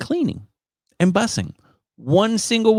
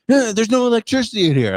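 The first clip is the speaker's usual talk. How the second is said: mock tour guide; 11 semitones higher, faster than usual. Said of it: "He goes".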